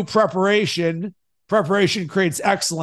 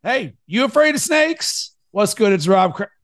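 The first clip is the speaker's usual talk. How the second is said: podcast hook. Shown as a demonstration. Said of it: "then my hook".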